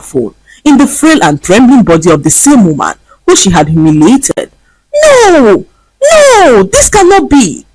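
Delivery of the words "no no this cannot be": screaming. A narrator's reading. Vanessa waking in the beggar's body, screaming in panic. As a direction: scream in disbelief. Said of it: "Vanessa screamed".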